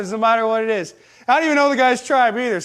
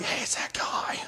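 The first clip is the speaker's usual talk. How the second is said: hushed awed whisper; kids' whisper; 11 dB quieter than usual. Retold or imitated. Kids at the playground spotting the big guy, whispering. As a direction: whisper it as a secret between children.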